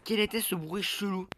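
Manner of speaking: high, loud frightened cry; scared horror game streamer. Real, not acted. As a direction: yelp it out, spooked. Startled by game noise.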